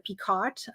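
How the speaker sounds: picot said with the final T sounded; old wrong pronunciation. Shown as a demonstration. Speaker recalling how they always said the stitch, mispronounced picot with a T. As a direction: say "picot" as PEE-cot, T and all. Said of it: "did not know how to say".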